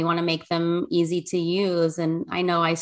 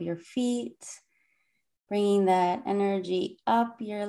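soothing calm voice. Acted. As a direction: lead the breathing gently and unhurried. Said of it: "the soothing, calm voice of the speaker".

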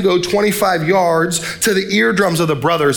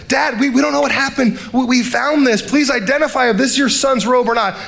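high mock-innocent pleading to dad; fake innocent brothers; 6 semitones higher than usual. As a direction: sons feigning ignorance to their father, pitched up. Brothers lying to father.

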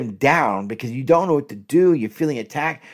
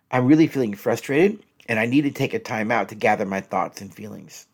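calm, softer tone; 3 semitones lower than usual. Shown as a demonstration. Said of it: "Say it this way instead".

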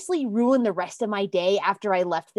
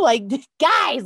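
laughing call; 3 semitones higher, 5 dB louder than usual. Real, not acted. Excited laughing shout.

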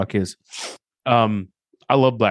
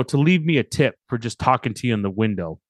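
retold deadpan line; 3 semitones lower than usual. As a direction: deliver it dry, with little movement in the voice. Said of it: "Just deadpan. Leaned over and said that. Almost like Wednesday Addams".

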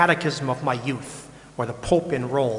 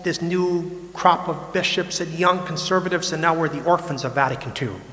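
complaining; 4 semitones higher than usual. Retold or imitated. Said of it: "they're all complaining".

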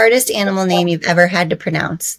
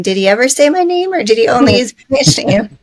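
worried listener voice; 3 semitones higher, 3 dB louder than usual. Retold or imitated. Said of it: "everyone listening is gonna be thinking".

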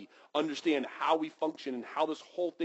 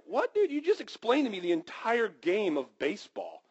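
mock disbelief; 3 semitones higher than usual.

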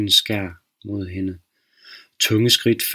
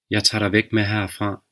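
calm officer. Acted. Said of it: "Betjentens stemme var dyb og rolig".

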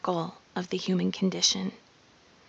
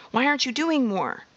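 mocking society's nag; 6 semitones higher than usual. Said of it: "society will tell you".

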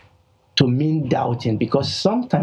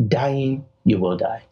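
weighty pronouncement with a pause after "Dying"; forceful. Retold or imitated. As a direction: deliver it as a sure sentence. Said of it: "It was forceful, what God said".

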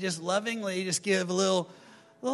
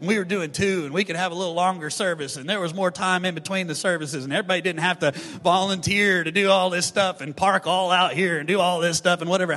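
louder, whiny complaining rant; mock-grumble about extra services; griping volunteer; 5 dB louder than usual. Church volunteer complaining about extra services, loud mock grumbling. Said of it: "we can get this attitude".

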